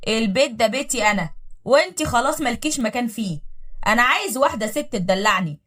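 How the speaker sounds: cruel voice. Acted. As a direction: lay down the law without pity. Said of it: "بصوت مليان قسوة".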